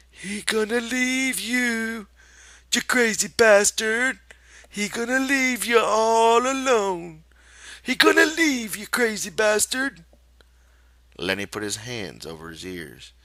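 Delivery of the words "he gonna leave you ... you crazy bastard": soft repeated taunt. Acted. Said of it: "repeated softly, over and over".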